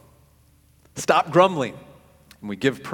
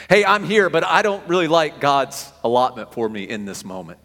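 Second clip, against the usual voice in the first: raised, louder mock complaint; louder grumble; 5 dB louder than usual. Grumbler voiced louder second time.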